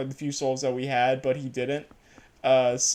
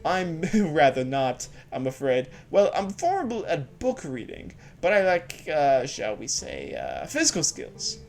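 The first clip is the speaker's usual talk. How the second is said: put-on bookish young scholar; 2 semitones higher than usual. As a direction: play an eager, bookish young man greeting Link. Voicing the scholar Shad.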